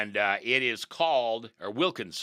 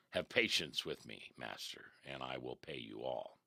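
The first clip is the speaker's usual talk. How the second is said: soft, lower pleading; pleading servant; 9 semitones lower, 11 dB quieter than usual. Acted. A preacher voicing the servant begging his master, soft and pleading. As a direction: beg meekly for patience. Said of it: "that's what the servant said".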